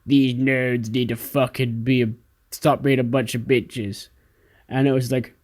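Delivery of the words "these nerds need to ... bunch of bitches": rat voice. Retold or imitated. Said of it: "Connor in his little rat voice".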